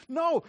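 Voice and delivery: a sharp, high, loud no; emphatic no. Real, not acted. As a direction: cut the wrong idea off. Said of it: "answering his own question".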